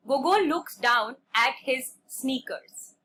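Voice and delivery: slow, measured classroom reading; story read-aloud. A narrator's reading. Teacher reading a story to a class, measured read-aloud. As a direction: read it out slowly, phrase by phrase.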